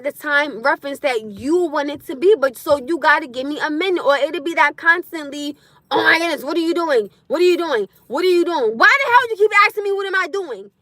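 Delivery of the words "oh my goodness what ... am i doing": hammed-up needy partner who won't stop asking; nagging partner imitation. Imitating a clingy partner's nagging, mock impatient.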